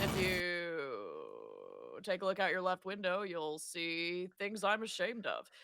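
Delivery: slow airline captain announcement; pilot voice. Acted. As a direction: talk like a pilot over the intercom. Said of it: "Dickie talks kinda like a pilot".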